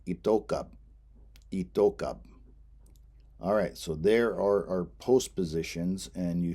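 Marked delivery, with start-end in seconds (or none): 0.1-2.2 itokab said carefully for students; Lakota itokab. Shown as a demonstration. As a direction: model itokab, each syllable clear. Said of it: "And the last one".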